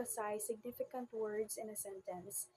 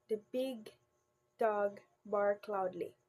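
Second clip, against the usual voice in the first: BIG set apart by a pause after it; measured emphasis on big; stress on BIG. Shown as a demonstration. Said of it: "The word big is like stress".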